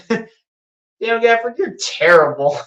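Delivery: slow, amused laugh over the name. Real, not acted. Fan laughing at the player's bad foul, laughing through it.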